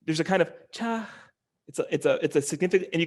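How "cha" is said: "cha" on a raised tone; higher pitch. Shown as a demonstration. Teacher showing the tone of a word, higher pitch. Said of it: "this is a higher pitch".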